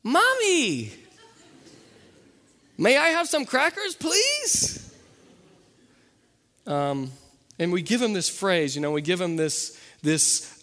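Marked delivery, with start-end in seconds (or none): 0.0-4.9 put-on much higher, sing-song polite little boy; high cute toddler asking nicely; sweet toddler voice. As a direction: ask sweetly like a two-year-old. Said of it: "he just snaps out of it and he's like".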